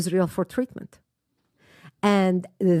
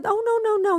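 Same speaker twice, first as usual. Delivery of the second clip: emphatic gentle refusal; 13 semitones higher than usual. Retold or imitated. Driver insists no fee needed.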